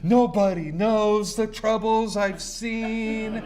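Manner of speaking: slow, self-pitying woe-is-me lament; mock the poor victim, slowly; victim mode. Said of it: "I go into victim mode".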